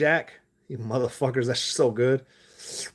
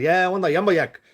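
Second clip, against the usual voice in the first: put-on raised, slowed Mexican accent while ordering; playful Mexican accent, higher and dragged out; 6 semitones higher, 4 dB louder than usual. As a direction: slip into a Mexican accent at the counter, drawing out the large fry. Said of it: "I start talking with an accent".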